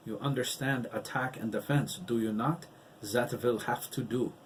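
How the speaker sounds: a light mocking German accent. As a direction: parrot her German accent with a touch of scorn. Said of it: "He mocked Esmeralda's German accent".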